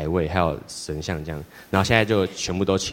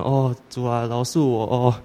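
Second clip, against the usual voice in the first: mock whiny plea; 4 semitones higher, slower than usual. Sleepy teen begs the Lord.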